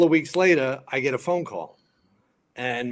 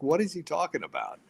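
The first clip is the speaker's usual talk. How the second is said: high-voiced imitation of a baffled woman; puzzled actress; 5 semitones higher than usual. Actress asks fireman about his friend's rant, puzzled. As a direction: lightly mimic her bewilderment, pitched up.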